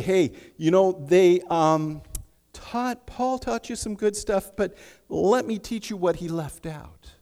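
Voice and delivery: a hint of a slick deceiver; smooth false teacher. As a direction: lure them off Paul's teaching. False teachers speaking to believers.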